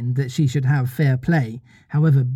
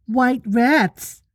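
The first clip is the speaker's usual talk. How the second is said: put-on high-pitched boyish outburst; excited little-boy guess; inspired cry; 10 semitones higher than usual. A narrator's reading. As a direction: pipe up like a child with a bright idea.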